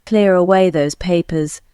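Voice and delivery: British English linking R in "Clear away", R sounded before the vowel; British accent demo line; British example. Shown as a demonstration. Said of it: "unless the next word begins with a vowel".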